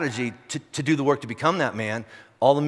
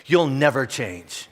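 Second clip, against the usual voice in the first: slow accusation; much slower than usual. Retold or imitated. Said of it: "the number one line that comes up".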